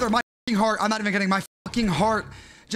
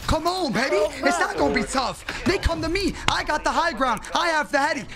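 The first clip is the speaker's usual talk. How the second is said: higher, pumped-up gamer boasting; hyped-up trash talk; 5 semitones higher than usual. Real, not acted. Streamer hyping himself during a one v three, excited. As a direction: talk yourself up mid-fight, buzzing.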